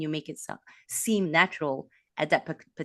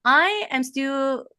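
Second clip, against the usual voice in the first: whisper; 9 semitones higher, 7 dB louder, much slower than usual. Real, not acted. Opens answer in whisper.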